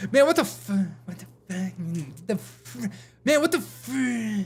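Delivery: slow, high cursing in halting, broken-off starts. Imitating a politician who mutters his curses: Eric Swalwell cursing under his breath. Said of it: "he does it under his breath".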